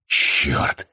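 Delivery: low, voiceless curse through pain. A narrator's reading. Patient reeling from head pain, cursing low. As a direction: let the pain swallow the voice.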